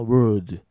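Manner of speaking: "word" with a single tongue curl, no l; pronunciation of WORD. Shown as a demonstration. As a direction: model "word", curled r straight into d. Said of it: "ベロが一回くるっと巻いてる".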